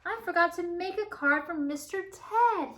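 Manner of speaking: upset. Acted. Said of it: "he cried".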